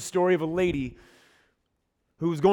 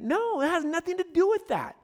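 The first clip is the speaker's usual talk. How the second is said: emphatic denial; 9 semitones higher than usual. Retold or imitated. Jesus correcting his disciples about the blind man, emphatic denial. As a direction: quote a firm no in a raised pitch.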